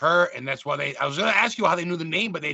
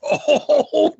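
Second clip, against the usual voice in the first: startled gasp; 12 semitones higher, 7 dB louder than usual. Real, not acted. Chilling ghost story reaction.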